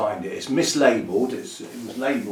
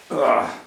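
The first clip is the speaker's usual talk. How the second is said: brief, louder grunt of effort; short grunt; 3 semitones higher, 5 dB louder than usual. Real, not acted. Grower handling a plant for the box, short grunt. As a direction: let out a quick "ugh".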